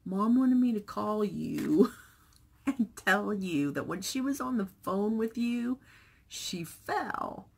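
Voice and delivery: hesitant grandson breaking the news; lightly voiced son, half laughing; son explaining. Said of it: "he goes".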